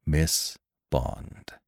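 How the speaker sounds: quietly compel attention with a low voice; hushed gravity; low, intense feeling. A narrator's reading. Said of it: "It was low and vibrating with feeling".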